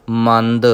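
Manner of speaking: ਮੰਦ ending in a light unaspirated d; soft d. Shown as a demonstration. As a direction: say ਮੰਦ softly, not ਮੰਧ. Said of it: "ਪੋਲਾ ਕਰਕੇ ਪੜ੍ਹਨਾ ਹੈ". (ਮੰਦ ਪੋਲਾ ਕਰਕੇ)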